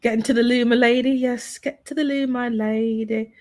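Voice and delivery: light put-on Cockney accent; a mild mock Cockney servant. Host showing off his Cockney to chat, light put-on Cockney. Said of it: "I can easily put on the Cockney".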